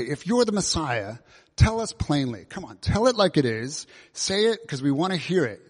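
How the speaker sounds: lightly acted exasperated demand; mild impatient irritation. Crowd demands a plain answer from Jesus, mildly impatient. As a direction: press for an answer, a touch irritated. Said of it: "look at how irritated and sort of impatient".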